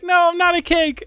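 high-pitched, loud mock denial; mock protest. Meme victim denying he is cake, in a high, loud mock protest. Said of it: "And then he's like".

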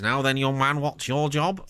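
badly faked football manager impression; lightly attempted, rough take on a manager; half-hearted go at a famous manager's voice; Brian Clough. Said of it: "I can't really do Brian Clough very well".

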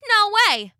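high cheeky cookie voice; gingerbread man voice. Acted. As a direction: toss it off, cocky.

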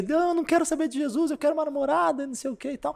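high, whiny put-on protest; imitating petulant refusal. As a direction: refuse like a mock sulky kid. Imita a recusa do rapaz. (birra imitada, voz bem aguda)

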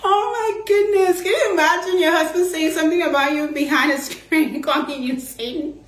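amused disbelief through laughter; laughing. Real, not acted. Still laughing at the joke.

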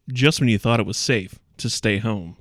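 slow, ominous trailer delivery; dramatic tagline read. Shown as a demonstration. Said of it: "can I read you the tagline".

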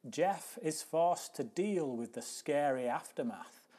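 film-trailer style reading with sweeping intonation; announcer-like blurb, slowing and dropping on the last words; dramatic synopsis read. Acted. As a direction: read it out theatrically, punching key words.

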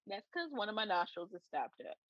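stuffy, blocked-nose voice; nasal voice. Real, not acted. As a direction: speak with one nostril stopped up. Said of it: "if I sound a little nasal".

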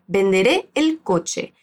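"Venderé el coche" spoken slowly and evenly; slow model phrase. Shown as a demonstration. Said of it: "El complemento después".

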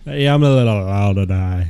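mock London accent, falling away; hammed-up fake Londoner; terrible British accent. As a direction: put on a bad British accent. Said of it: "those are terrible accents".

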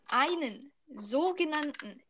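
slow, showy announcer reveal; grand announcement. Pretend. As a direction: present it like a prize.

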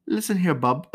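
put-on playful stab at an Essex accent; comic, amateur Essex voice; attempted Essex accent. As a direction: try a rough-and-ready Essex accent. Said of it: "I don't know if I did that right".

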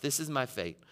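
softly resigned; understated, acted surrender; giving up. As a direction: let the voice sink in mild defeat. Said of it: "Just kinda giving up".

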